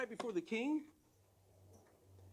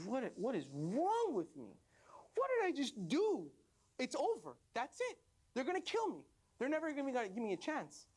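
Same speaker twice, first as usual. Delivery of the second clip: high-pitched mock wailing lament; hammed-up despair; 5 semitones higher than usual. Condemned man alone in his cell, hammed-up despair. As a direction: lament your fate, voice climbing high.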